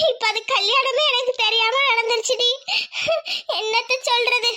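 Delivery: crying as she speaks; weepy, sorrowful complaint; tearful lament. Acted. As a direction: lament through sobs between phrases. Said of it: "இதுக்கெல்லாம் போய் அழுவலாமா?".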